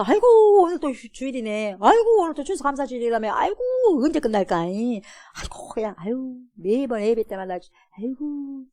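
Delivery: sighing, groaning complainer; mock weary churchgoer. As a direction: whine like someone dragged to church. Mocking reluctant churchgoer. (억지로 예배 오는 교인 흉내)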